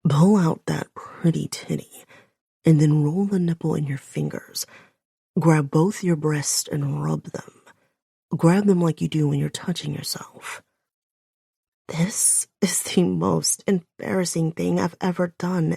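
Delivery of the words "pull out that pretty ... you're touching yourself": lightly voiced low male command, partly whispered; low growling man. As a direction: direct her low and steady like a man in charge. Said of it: "deep, growling voice of his so low".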